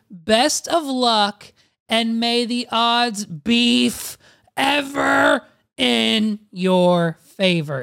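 slow, grand, ending in a shout; dramatic announcer. Shown as a demonstration. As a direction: proclaim it like a tournament host. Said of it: "is what the website says".

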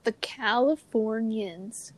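put-on slow, drawn-out California accent; lightly parodied Californian drawl. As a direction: stretch it out like a mock Californian. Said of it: "sound like I'm from California".

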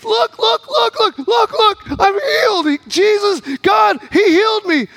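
high, urgent bursts of joy; excited, amazed testimony. Retold or imitated. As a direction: act out a man astonished at his healing. Healed man excitedly showing his leg.

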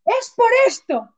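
high, slow dawning realization; slow eureka realization. Retold or imitated. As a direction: draw it out as the penny drops. Sudden realization while crying.

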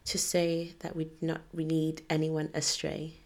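quiet earnest prayer; praying. Acted. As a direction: pray it softly and sincerely. Opens episode with prayer.

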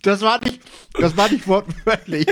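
talking with food in mouth; chewing while talking. Real, not acted. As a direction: speak through a mouthful. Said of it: "isst du schon wieder Nüsse beim Podcast".

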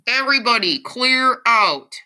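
high, loud firefighter's order; megaphone yell. A narrator's reading. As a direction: yell it out to a crowd. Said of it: "a firefighter with a megaphone yells".

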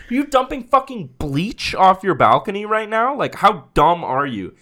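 high, outraged telling-off; retold yelling. Podcaster replaying how he confronted a neighbor, yelling. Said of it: "I yelled at him".

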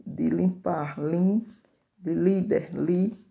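"lim" and "li" loud, each said alone after its word; teacher isolating "lim" and "li"; stressed syllable demo. Shown as a demonstration. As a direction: punch out "lim", then "li". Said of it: "a sílaba tônica das palavras".

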